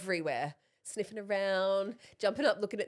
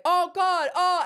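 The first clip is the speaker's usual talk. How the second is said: retold panicking kid; 8 semitones higher, 8 dB louder, slower than usual.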